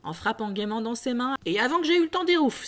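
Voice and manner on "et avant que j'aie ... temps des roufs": much higher and louder, fast; hurried jolly urging. Acted. Fezziwig urging apprentices to be quick, fast and loud. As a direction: hurry them along playfully.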